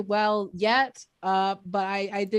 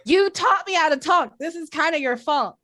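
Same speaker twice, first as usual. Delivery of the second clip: higher-pitched, mildly indignant protest; hammed-up plea to a bullying mom; mock standing up; 5 semitones higher, 3 dB louder than usual. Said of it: "I stood up to my high school bully and I said".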